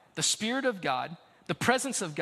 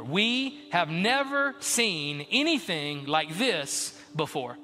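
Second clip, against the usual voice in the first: slower repeat; 2 semitones lower, slower than usual. Shown as a demonstration.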